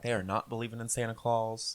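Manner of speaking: lightly voiced adamant father; imagined stern dad. Dad forbidding belief in Santa, imagined stern dad. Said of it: "He doesn't speak like that, but in my mind".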